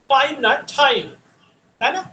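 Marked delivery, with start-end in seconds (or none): 0.1-1.0 first টাইম plain, second টাইম with an aspirated t; wrong then right. Shown as a demonstration. Teacher correcting how students say time. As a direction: contrast টাইম without and with a puff of air. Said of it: "আমরা টাইম বলতাম".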